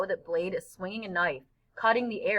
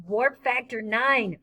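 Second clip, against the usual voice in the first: slow, drawn-out louder cry; playful shout; 4 semitones higher, 3 dB louder, slower than usual. Acted. Boy riding his friend urges him on like a spaceship, excited call. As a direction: call it out like a starship captain. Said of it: "Freak is shouting".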